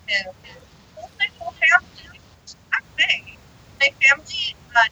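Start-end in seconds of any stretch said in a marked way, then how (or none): 1.2-4.8 distant, bad connection audio; speaking too far from microphone; far from mic. Real, not acted. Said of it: "You sound like ... Simply Human podcast".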